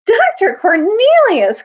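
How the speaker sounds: high, loud, joyful shout; boy king overjoyed to see his tutor; joyful cry. Acted. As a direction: call out to a dear friend. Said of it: "cried Caspian with joy".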